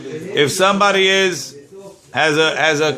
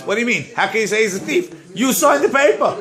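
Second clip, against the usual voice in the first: indignant disbelief; 5 semitones higher, faster than usual. Acted. Acted indignant retort in case.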